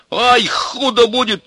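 high, loud angry warning; shouted threat. A narrator's reading. Ivan warning Milka off, shouting. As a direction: holler that you've had enough. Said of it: "закричал Иван".

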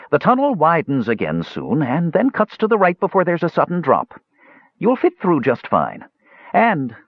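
out of breath, pushed up high; winded alto voice. Acted. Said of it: "ranging up into the alto register now, as its owner became winded".

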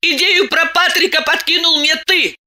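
выше, с укором; брось обвинение мужу; обвиняюще. A narrator's reading. Диана обвиняет мужа. (Диана обвиняет мужа)

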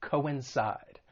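"coincide" said carefully as co-in-SIDE; careful pronunciation. Shown as a demonstration. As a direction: model "coincide" in three syllables. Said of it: "may be a little tricky to pronounce".

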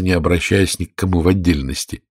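usual speaking voice

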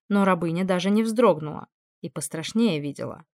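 usual speaking voice

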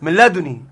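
"لدني" as ladunī, one short n; lightly touched n in "لدني", no gemination; light single nun. Shown as a demonstration. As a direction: show "لدني" with the nun undoubled. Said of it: "قرأوا بالنون مخففة".

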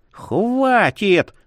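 high-pitched cry to stop; alarmed, high exclamation. A narrator's reading. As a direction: wail it high without full volume. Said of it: "возопила приказчица".

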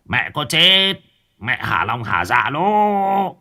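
slow, reverent then rising call to the statue; drawn-out plea to his dead mother; praying sorcerer. Acted. Sorcerer bows before his mother's statue, slowly calling to her. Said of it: "chắp tay lạy bức tượng mụ ké".

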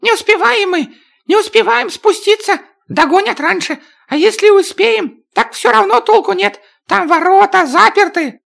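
high, panicked dwarf shout. Acted. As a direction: yell it high while running. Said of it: "Чак прокричал".

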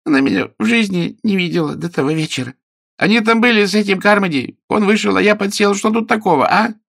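high, whining plea; the hidden man pleads plaintively with the angry suitor. A narrator's reading. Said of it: "Голос стал жалобным".

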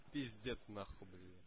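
low, soft exasperated mutter; muttered aside. Real, not acted. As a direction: grumble it to yourself. Muttered aside after shouting.

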